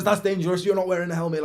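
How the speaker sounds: high, loud mock scolding; hammed-up screaming woman. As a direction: shriek it like an angry stranger. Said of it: "starts screaming at him and says".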